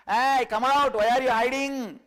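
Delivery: loud, high call to someone hiding; loud demanding call out from the rock. Acted. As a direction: shout him out from behind the rock. Calling the hidden fellow out.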